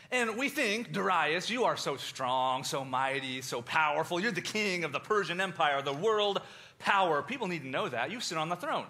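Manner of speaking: loud, gushing flattery of a king; butter up the king, laying it on thick; fawning flattery. Retold or imitated.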